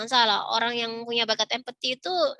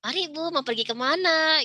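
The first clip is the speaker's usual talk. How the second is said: friendly stranger; 6 semitones higher than usual. Retold or imitated. Friendly stranger greets at terminal.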